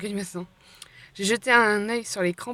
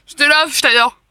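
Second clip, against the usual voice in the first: gushing thanks; 6 semitones higher, 12 dB louder than usual. Real, not acted.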